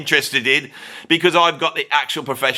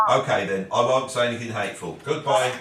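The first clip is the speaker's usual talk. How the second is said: soft goodbye; 6 dB quieter than usual. Real, not acted. Ending phone call.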